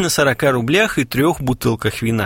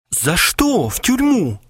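frightened; 10 semitones higher, slower than usual. Acted. Frightened Kharchenko asks.

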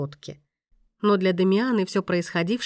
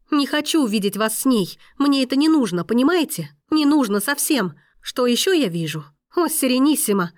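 much higher, louder, near-screaming refusal; anguished outburst; 4 semitones higher, 4 dB louder than usual. Acted. Woman refusing to see the maestro's wedding, anguished rage. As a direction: build to a desperate final cry.

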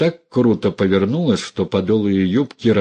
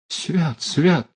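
mild frightened exclamation; 8 semitones higher than usual. Acted. Women cross themselves.

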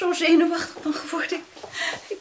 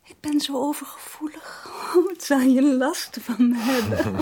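tender whisper. Acted. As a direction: lean in and whisper. Tender with fiancé. (teder fluisterend)

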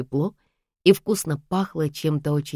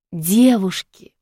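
slow, louder call to the two ladies; 4 semitones higher, 5 dB louder, much slower than usual. A narrator's reading. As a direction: interrupt the quarrel. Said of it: "подала голос девочка Анфиса". (громче, протяжно окликает)

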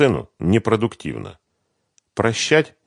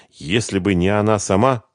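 ordinary delivery

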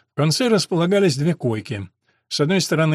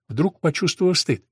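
usual speaking voice

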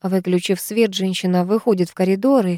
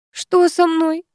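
much higher, scared question; frightened moan; 9 semitones higher, slower than usual. Acted. Woman in labour asking what is happening, frightened. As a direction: ask in fear and pain. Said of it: "стонет та испуганно".

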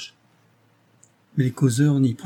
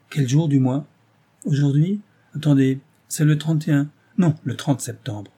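impatient; 3 semitones higher, 4 dB louder than usual. Acted. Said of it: "Elle fit un geste d'impatience".

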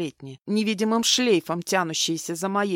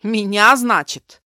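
mean sneer; 2 semitones higher, 10 dB louder than usual. A narrator's reading. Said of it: "как-то зло улыбнулся он".

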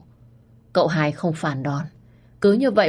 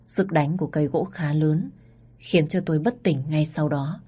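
ordinary delivery, nothing marked

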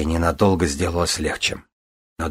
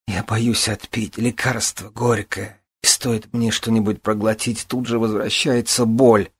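higher, slow, frightened; fearful breathy plea; 5 semitones higher than usual. Acted. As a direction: gasp it out in fear. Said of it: "выдохнула Присцилла".

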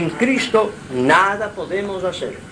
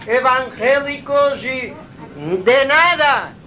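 higher, slower and emphatic sermon voice; preaching fervor; 7 semitones higher, slower than usual. Real, not acted. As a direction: rail against empty rituals from the pulpit. Predica contra ritos vacíos. (predicando con fervor, más agudo)

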